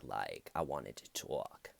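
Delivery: low, slow, drowsy surfer-dude voice; mumbled lazy stoner voice; imitating a surfer bro. Imitating the suspect's voice.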